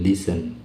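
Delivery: "listen" as lis-en, no t sound; "listen" with the t dropped, lis-en; silent t. Shown as a demonstration. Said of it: "T-nya nggak dibunyikan".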